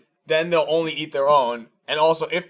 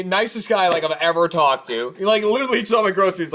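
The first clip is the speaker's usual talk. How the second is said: usual speaking voice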